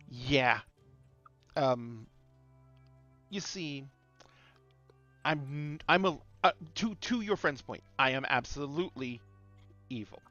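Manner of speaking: lich voice, slightly slowed menace; echoing voice inside helmet. Acted. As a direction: calmly declare evil, then soften. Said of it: "the Lich says".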